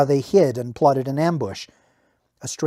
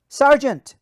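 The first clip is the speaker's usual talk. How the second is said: calling out; 12 semitones higher, 8 dB louder than usual. Acted. Soldier calls to Namir.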